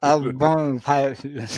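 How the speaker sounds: holding tongue while talking. Shown as a demonstration. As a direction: say it gripping your tongue.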